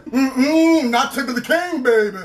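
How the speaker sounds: sassy taunt. Retold or imitated. Student taunting teacher in fight.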